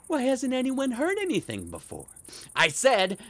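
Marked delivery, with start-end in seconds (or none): 0.1-2.1 imitated landlord. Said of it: "He asked me".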